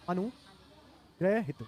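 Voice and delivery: अनुग्रहित with a long break after "anu"; slow sounding-out. Shown as a demonstration. Teacher checks a doubtful spelling, sounding out slowly. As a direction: split अनुग्रहित slowly into parts.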